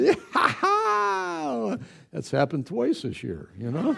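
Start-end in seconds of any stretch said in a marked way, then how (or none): 0.0-1.8 high, whooping cheer for a touchdown; excited cheer. Retold or imitated. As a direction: cheer like your team just scored. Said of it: "when the Bills score, I went".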